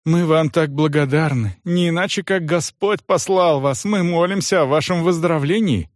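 fawning innkeeper. Acted.

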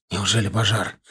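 frantic cry for help, rising; desperate shouting. Acted. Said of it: "Надрывно кричали откуда-то сзади".

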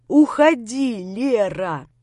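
a loud, driving yell. A narrator's reading. Grisha yelling at beloved Lera to leave. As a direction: shout her away. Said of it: "заорал я на мою хорошую".

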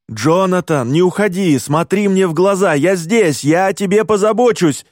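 high, urgent frightened pleading; frightened urging. Acted. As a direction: keep him awake, scared. Friend panicking over collapsing narrator.

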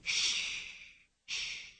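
soft unvoiced shushing; Pippi, whispered hush. A narrator's reading. Pippi hushing Anika by the sleeping bull, whispering. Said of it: "whispered Pippi".

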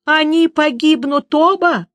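Dandelion wailing in horror at the news. A narrator's reading. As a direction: cry it out in alarm. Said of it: "завыл Лютик".

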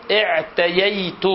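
"اعتييت" with y in place of the l; slow "اعتييت", l turned to y; y for l lisp. Shown as a demonstration. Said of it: "اللام ياء فيقول".

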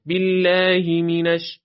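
بالله مینش with short final hi, straight into mi; short linked vowel. Shown as a demonstration. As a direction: move quickly from the ه of بالله into مینش. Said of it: "پس دوباره یه حرکت". (هایِ بالله یک حرکت، وصل به مینش)

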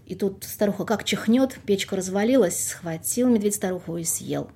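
lively folk tale narration; fairy tale storytelling. Acted. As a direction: tell it like an old village tale. Folk tale told aloud.

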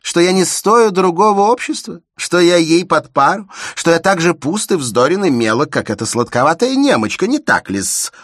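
high, loud heated outburst; hotheaded. A narrator's reading. Shubin hotly accusing Elena, loud heated outburst. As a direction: let it boil over. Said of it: "продолжал запальчиво Шубин".

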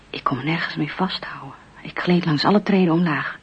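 fast whispered telling; whispered narration. A narrator's reading. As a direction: rush through it under your breath.

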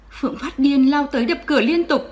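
ordinary delivery

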